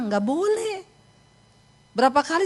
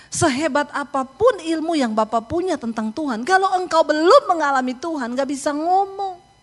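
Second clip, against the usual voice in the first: higher, stretching "belum" and "ngomong"; emphatic preaching; 5 semitones higher, 3 dB louder than usual. Retold or imitated. Preacher telling a learned man he lacks experience, emphatic. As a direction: drive the point home, dragging out "ngomong". Preacher driving home her point.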